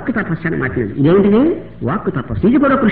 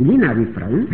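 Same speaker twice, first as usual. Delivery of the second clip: firm, decided; 6 semitones lower than usual. Shown as a demonstration. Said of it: "అని నిశ్చయంగా మాట్లాడుతున్నట్టు".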